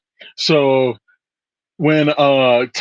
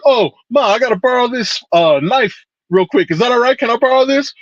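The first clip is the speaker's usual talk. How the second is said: higher, sweet-talking son voice; Tommy to his mom; 9 semitones higher than usual. Retold or imitated. Son asking his mother to borrow a knife, higher and sweet. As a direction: coax mom innocently for the knife. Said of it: "he's like".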